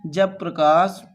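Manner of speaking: low, slow, with a long pause between phrases; slow dictation. Real, not acted. Teacher writing out a definition for students, slow dictation. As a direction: dictate it piece by piece while writing.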